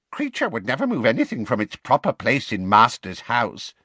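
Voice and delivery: high, awed house-elf voice; creaky little elf, wondering aloud; Kreacher. A narrator's reading.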